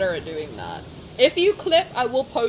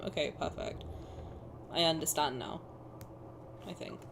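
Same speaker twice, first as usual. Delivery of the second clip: whispered aside; 7 semitones lower, 12 dB quieter than usual. Real, not acted. Muttering to herself after confusion.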